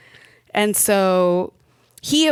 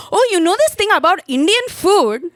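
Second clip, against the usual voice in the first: much higher, louder, eager little brother; excited kid; 12 semitones higher, 7 dB louder than usual. Retold or imitated. Little brother eagerly chatting to customs officer, much higher and louder. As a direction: blurt it out thrilled. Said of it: "my brother literally immediately was like".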